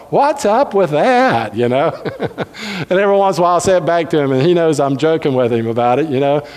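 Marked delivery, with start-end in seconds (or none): 0.1-1.6 slow, laughing, showy "What's up with that?" with the stress on "What's"; hamming up the missionary's flourish through a laugh; preacher teasingly imitating the missionary's catchphrase, flamboyant and laughing. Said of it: "say it in such a flamboyant way".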